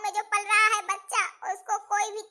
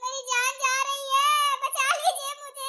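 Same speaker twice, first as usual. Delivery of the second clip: slow weak plea; slower than usual. Acted. Patient exhausted crying.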